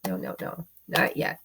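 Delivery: hushed whisper, almost no voice. Real, not acted. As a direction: breathe it to the cards. Hushing the eager cards.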